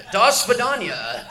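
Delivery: a light mock Russian accent, slow; hammed-up Russian accent from a DJ; bad Russian accent. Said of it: "Here's my Russian".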